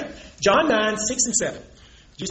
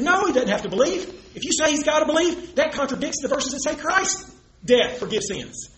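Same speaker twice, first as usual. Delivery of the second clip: higher, lightly mimicked objection; Traver arguing; 5 semitones higher than usual. Preacher imagining his opponent arguing with Paul, lightly mimicked protest. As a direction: argue back in a raised pitch, slowing at the end. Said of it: "You would have argued with Paul there".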